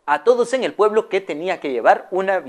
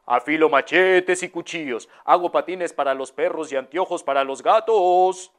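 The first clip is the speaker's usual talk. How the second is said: lightly voiced hawker crying his wares; a hint of a peddler calling out; street vendor's call. Street vendor calls his trade down the road, lightly voiced. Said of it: "que iba en la calle que decía".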